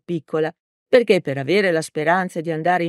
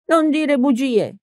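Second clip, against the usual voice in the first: put-on higher and slow, a stern old teacher; 9 semitones higher, slower than usual. A narrator's reading. Old teacher scolding the mayor, stern and slow. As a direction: scold him slowly like a schoolmistress. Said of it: "ribatté severa".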